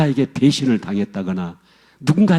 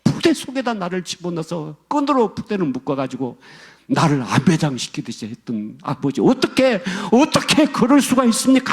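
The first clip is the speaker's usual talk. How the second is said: anguished outcry; 6 semitones higher than usual. Retold or imitated. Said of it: "이분이 막 절규를 하는 거예요, 막 울면서".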